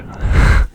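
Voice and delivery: quick voiceless chuckle; whispered laugh. Real, not acted. Host amused at talking Scottish, whispered laugh. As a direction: let out a short whispered laugh.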